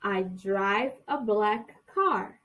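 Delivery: "I drive a black car." very slow, word by word; very slow, clear "I drive a black car.". Shown as a demonstration. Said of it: "De novo".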